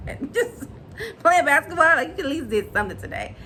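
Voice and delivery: lightly voiced fed-up stepdad; a hint of a dad nagging about the grass; imitating Maurice. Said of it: "And he says".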